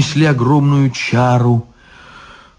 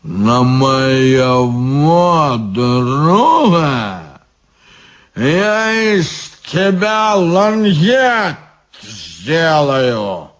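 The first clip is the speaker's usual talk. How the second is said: put-on drunken threat; much slower than usual. Guard threatening Ivan.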